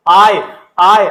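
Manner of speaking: आय drawn out slowly and loudly; sound demonstration. Shown as a demonstration. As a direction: stretch each आय so the sound stands out. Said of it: "आय की ध्वनि आ रही है".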